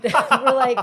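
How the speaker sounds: laughing loudly, slow. Real, not acted. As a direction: burst out laughing mid-sentence. Laughing at the show.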